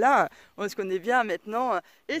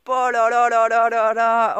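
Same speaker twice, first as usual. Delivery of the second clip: mock panicked kid; 9 dB louder, slower than usual. Son recalls his morning dread.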